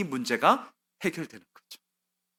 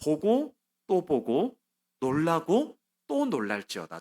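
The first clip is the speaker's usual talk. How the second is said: slow, weighty, raised proclamation; God's solemn answer; 2 semitones higher, slower than usual. Acted. Preacher voicing God's answer to Habakkuk, slow and solemn. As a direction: voice God declaring slowly to his prophet. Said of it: "그러면서 이렇게 얘기하세요".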